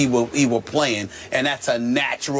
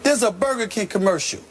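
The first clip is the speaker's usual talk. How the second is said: excited outburst; 9 semitones higher than usual. Real, not acted. Hyped host bursting with news.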